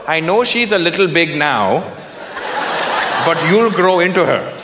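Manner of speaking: lightly voiced mom selling a match; a hint of a persuasive mother; coaxing mother. Mom presents a girl to son, lightly coaxing. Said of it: "You see my mom walking in".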